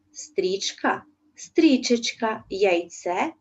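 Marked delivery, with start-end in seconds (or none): 1.4-2.4 стрічечка slowed and fondly stressed; affectionate diminutive. Shown as a demonstration. Teacher to pupils, tenderly voicing the diminutive. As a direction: linger on it like a pet name. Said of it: "із пестливо здрібнілим відтінком".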